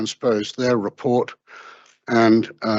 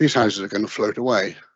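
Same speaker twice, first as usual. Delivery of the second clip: ordinary delivery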